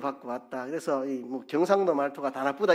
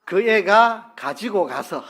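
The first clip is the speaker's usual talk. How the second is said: slow clear gloss; 6 semitones higher, 7 dB louder, slower than usual. Shown as a demonstration. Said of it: "무슨 말입니까?".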